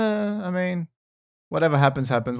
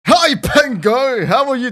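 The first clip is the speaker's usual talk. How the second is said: much higher, slow drawn-out hi; enthusiastic greeting; 11 semitones higher, 5 dB louder, slower than usual. Real, not acted. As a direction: stretch the greeting out cheerfully. Overly enthusiastic introduction.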